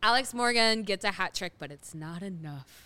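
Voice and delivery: hammed-up Chicago fan voice; Chicago accent. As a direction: call it like a Chicago superfan. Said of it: "in our best Chicago accents".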